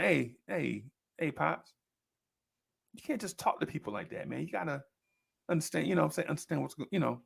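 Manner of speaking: hushed mock-earnest reproach; man-to-man talk. Ten-year-old lectures his father on tact, quiet mock earnestness. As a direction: reason with him quietly, as kid playing grown-up. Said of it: "had to have the man-to-man talk with him".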